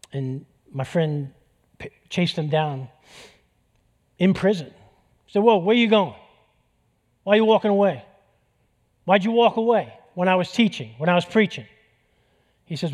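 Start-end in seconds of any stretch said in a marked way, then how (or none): 5.4-11.6 loud, higher call after a walking man; calling after him. Retold or imitated. Friend chasing the inmate down in prison, loud bewildered call.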